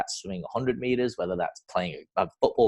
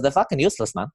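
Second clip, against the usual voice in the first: raised, mocking Zimbabwean accent; funny accent; 7 semitones higher than usual. Swim coach scoffing at his swimmers, in a high Zimbabwean accent. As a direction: imitate the Zimbabwean coach, higher than your own voice. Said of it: "he used to have this funny accent".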